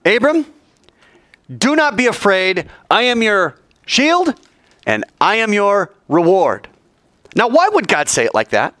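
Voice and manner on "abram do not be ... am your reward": high, slow, solemn voice of God; God's voice. Acted. God reassuring Abram in a vision, high and slow. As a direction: proclaim it slowly from on high.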